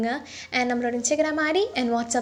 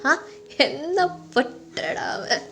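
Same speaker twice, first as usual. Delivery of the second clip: put-on drunken rambling; 5 dB louder than usual. Drunk lover raging to his friend about an unknown rival, hurt. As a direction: build from longing to jealous outrage. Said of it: "நீ குடிச்சிட்டு ரொம்ப பேசுறடா".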